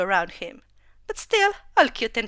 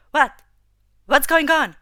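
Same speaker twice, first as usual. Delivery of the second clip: louder, puzzled question; a touch of bewildered alarm; confused; 4 semitones higher, 6 dB louder than usual. A narrator's reading. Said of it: "She was confused".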